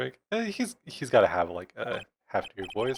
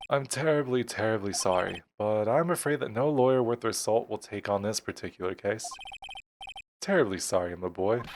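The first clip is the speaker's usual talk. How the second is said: put-on pompous old lawyer; 3 dB louder than usual. Grossberg apologising to the boy, stuffy regret. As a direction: apologise with mild pomposity, sinking in pitch.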